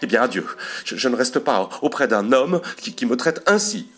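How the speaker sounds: high, loud outraged sputtering; indignant yelling. A narrator's reading. Offended wife threatens to leave husband, indignant yelling. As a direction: repeat and stumble in high-pitched outrage. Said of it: "elle s'indigna et hurlant".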